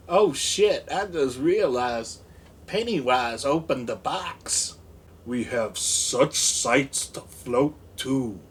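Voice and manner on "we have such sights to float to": slow creepy clown. Pretend. Pennywise quote from the box.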